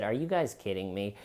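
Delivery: imagined calm denial; dismissive brush-off. Retold or imitated. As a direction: wave it off like it's nothing. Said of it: "if the Pfizer guy would have sat there and said".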